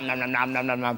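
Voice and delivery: mock munching.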